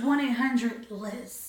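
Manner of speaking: slow, breathy one-eight-hundred line; sultry hotline voice. Pretend. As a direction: drag out the number like a hotline. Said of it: "sex phone operator".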